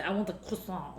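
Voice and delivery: French-style croissant dropped into an English order; French accent. Acted. Customer ordering at a bakery, French accent on croissant. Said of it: "like, a French accent".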